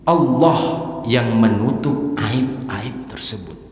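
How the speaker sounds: high, loud, impassioned preaching; fervent pulpit preaching; preaching at full force. Acted. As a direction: drive the point home to the congregation. Preacher raises voice to congregation.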